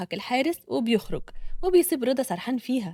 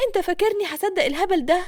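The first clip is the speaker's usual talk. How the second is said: scornful woman; 6 semitones higher, 3 dB louder than usual. Acted. Hana scoffs at Reda.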